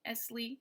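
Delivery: "esly" with no stress on either syllable; unstressed ESLY. Shown as a demonstration. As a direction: let both syllables of "esly" pass lightly. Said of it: "are unstressed".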